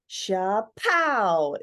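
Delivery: "Sha-pow" said with an open, ringing "pow"; a first try at the sound, with a lingering end; sound effect "Sha-pow". Shown as a demonstration. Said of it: "sha-pa would be more accurate".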